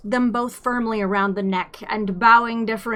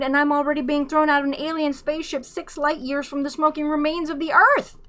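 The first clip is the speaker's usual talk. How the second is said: indignant complaint; 6 semitones higher, faster than usual. A narrator's reading. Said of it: "complained Arthur".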